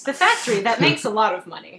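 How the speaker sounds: ironic stress on factory; sarcastic air quotes. Real, not acted. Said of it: "heavy air quotes".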